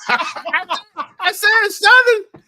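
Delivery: laughing loudly while talking; cracking up mid-sentence. Real, not acted. Laughing at the coach joke.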